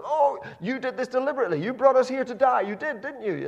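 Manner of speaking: loud, whiny accusing wail; complaining Israelites. Retold or imitated. Israelites accusing Moses of bringing them to die, loud whine.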